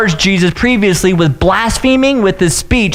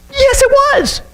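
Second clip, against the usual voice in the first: emphatic yes; slower than usual. Acted. Pastor agrees emphatically.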